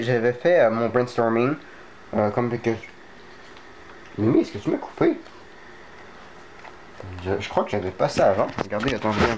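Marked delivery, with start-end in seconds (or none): 4.2-5.2 sudden much higher question; startled, asking the cat; taken aback, pitch jumping up; surprised. Real, not acted.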